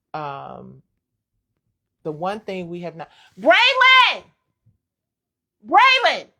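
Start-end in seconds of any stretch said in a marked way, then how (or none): 3.3-6.1 shrill, very loud, high, swooping yell. Breaking off mid-point to call out to Braylon nearby; yelling. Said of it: "I'm yelling in y'all ear".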